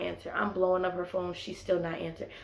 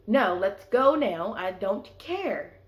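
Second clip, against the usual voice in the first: louder and slow, each word laid down flat; insistent demand; 4 dB louder, slower than usual. Retold or imitated. To the guy in the bathroom, a slow, loud, fed-up demand. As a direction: make it clear you are not waiting.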